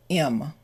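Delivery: HIM said as "im", no H; reduced HIM. Shown as a demonstration. Teacher shows learners HIM reduced to IM. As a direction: drop the H, just IM. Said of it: "the him reduces to".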